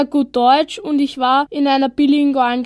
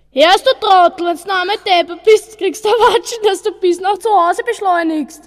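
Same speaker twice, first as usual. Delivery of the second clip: Viennese dialect; 5 semitones higher than usual. Shown as a demonstration. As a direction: yell it in broad Viennese. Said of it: "kannst du mir ein Beispiel geben".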